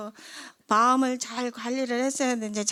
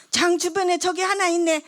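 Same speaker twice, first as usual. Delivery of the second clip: higher, louder, fervent pastor's voice; pastor's revelation; 8 semitones higher, 5 dB louder than usual. Retold or imitated. Pastor tells the sick woman what he sees, higher and louder. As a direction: proclaim it like a praying pastor.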